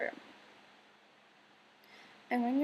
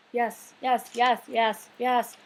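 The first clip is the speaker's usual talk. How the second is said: louder, insistent yes yes yes; emphatic yeses; 8 dB louder, much slower than usual. Real, not acted. Telling viewers firmly yes, it is fine. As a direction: hammer home the agreement.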